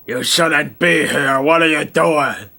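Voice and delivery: slow, eerie horror-movie warning; hint of a creepy caretaker; ominous warning. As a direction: spook the visitors away, lightly voiced. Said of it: "Very ominous horror movie cliche".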